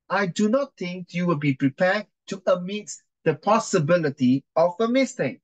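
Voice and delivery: lightly acted counsel addressing the court; courtroom counsel. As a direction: put the case as counsel, lightly performed. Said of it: "I'll be the counsel".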